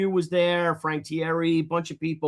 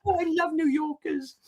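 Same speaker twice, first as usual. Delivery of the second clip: higher, soft, amused lady voice; a bemused lady sighing it out, pitched up; tour guide's line; 8 semitones higher, 4 dB quieter than usual. Retold or imitated. Tour guide remarking on the rude New Yorkers, amused and higher. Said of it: "And she's like".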